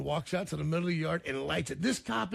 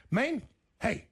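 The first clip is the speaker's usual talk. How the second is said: higher-pitched mock plea to a cop; imitating a rowdy singer; 5 semitones higher than usual. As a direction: pester him like a wild rocker. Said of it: "And he goes".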